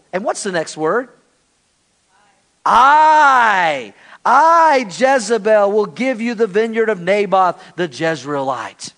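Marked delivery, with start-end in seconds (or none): 2.7-8.9 loud, emphatic I, I, Jezebel; Jezebel taking charge. Acted. Jezebel boasting to Ahab, loud and domineering. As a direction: declare it with a domineering swell. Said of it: "Jezebel had a tone".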